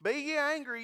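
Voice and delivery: lifted pulpit emphasis on angry; emphatic preaching. Shown as a demonstration. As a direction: preach it out, hitting angry hard. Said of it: "Just be angry".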